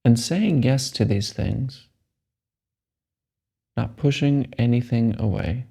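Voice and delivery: slow, measured meditation guide; unhurried phrases with long, restful pauses; guided meditation. Acted. Guide telling a meditator to let the body relax, calm meditation voice.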